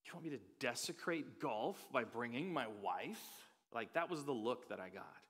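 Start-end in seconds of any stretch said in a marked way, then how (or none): 0.0-3.2 whispered horrified what; mock appalled husband; shocked golfer. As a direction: act scandalised at the idea. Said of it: "looked at me like I shot one of his children".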